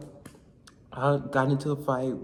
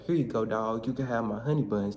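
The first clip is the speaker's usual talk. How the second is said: slightly lowered mock-tough voice; trying to sound tough; 3 semitones lower than usual. New inmate offers honey buns, mock tough. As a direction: play it tough, without pushing. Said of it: "trying to sound all tough".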